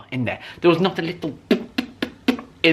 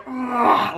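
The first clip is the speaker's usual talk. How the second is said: imitated grunt; 9 semitones higher than usual. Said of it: "like that".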